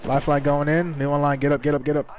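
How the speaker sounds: urgent loud callouts; shouting callouts. Real, not acted. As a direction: yell orders to the squad. Live firefight calling teammates.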